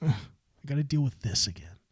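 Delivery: a touch of disappointment; weary disappointment. Shown as a demonstration. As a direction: say it like you're let down. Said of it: "Disappointed by is a".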